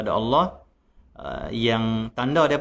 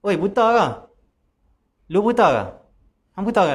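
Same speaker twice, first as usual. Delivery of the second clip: higher, louder rude bark; angry rude shout; 7 semitones higher, 4 dB louder than usual. Retold or imitated. Sleeping man yells at the caliph who kicked him, rude angry shout. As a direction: snap at the clumsy stranger who kicked you. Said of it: "Dia kata apa?".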